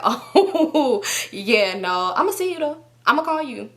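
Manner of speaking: laughing pretend chattiness, lifting high; fake breezy laugh. Hiding the argument from company, fake cheerful sign-off. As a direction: play it cool, giggle as if nothing's wrong. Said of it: "pretend like I'm not getting cussed out".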